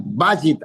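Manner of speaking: "Bajit" stressed on its first syllable, Ba; marked word stress. Shown as a demonstration. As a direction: hit the Ba of "Bajit", let jit fall. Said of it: "acá, acento acá".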